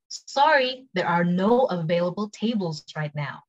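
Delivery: slow, separated words after sorry; careful slow model sentence; slow take. Shown as a demonstration. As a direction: spell out the phrase slowly for learners. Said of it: "cepet sama pelan".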